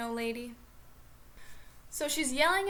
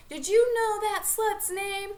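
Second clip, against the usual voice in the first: higher, louder, slow furious demand; imitated yell; 8 semitones higher, 6 dB louder, slower than usual. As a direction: spit it out slowly, furious. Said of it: "Cindy decides to be like".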